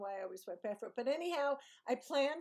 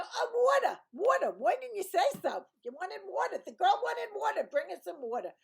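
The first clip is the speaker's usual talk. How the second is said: loud, high Brooklyn exclaiming; exasperated Brooklyn shouting, pitched way up; thick Brooklyn accent; 10 semitones higher, 9 dB louder than usual. Acted. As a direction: blare it out in exaggerated Brooklynese. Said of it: "I don't sound that Brooklyny compared to most people".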